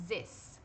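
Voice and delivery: "this" with a buzzing z-like th; voiced th. Shown as a demonstration. Teacher demonstrating the voiced th of this. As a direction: vibrate the th of "this" between the teeth. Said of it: "como se fosse".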